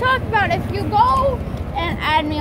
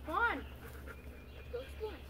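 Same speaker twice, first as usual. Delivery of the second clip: whispering; 3 semitones lower, 23 dB quieter than usual. Real, not acted. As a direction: whisper it like a secret. Whispered invitation.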